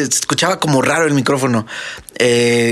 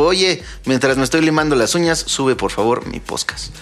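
imitating Jordi. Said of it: "le dice a su equipo".

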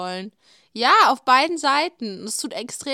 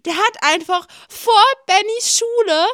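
higher and louder with every word; rising excitement; 11 semitones higher, 9 dB louder than usual. Real, not acted. Telling her friend her idol filmed nearby, getting excited. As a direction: build it up, you can barely believe it.

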